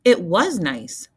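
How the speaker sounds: put-on slow, loud insistent child; Bean protesting. A narrator's reading. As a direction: defend yourself, stretching the words. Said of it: "said Bean".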